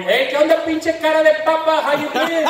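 high, cheerful mock greeting; buddy's friendly insult. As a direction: greet him warmly while insulting him. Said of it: "greets me by going".

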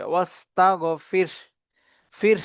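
"ওয়াস্তাগফির" ending on r and h, no vowel; careful "ওয়াস্তাগফির" with a consonant ending; sakin r. Shown as a demonstration. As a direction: stop "ফির" on a vowelless r. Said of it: "র সাকিন হবে".

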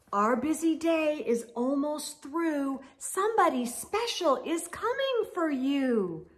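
gentle picture-book read; lilting bedtime-story voice; reading to children. A narrator's reading.

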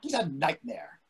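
breathy whispered complaint. Acted. Whispering to his wife about the waiter, a hushed complaint. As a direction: whisper it so the waiter can't hear.

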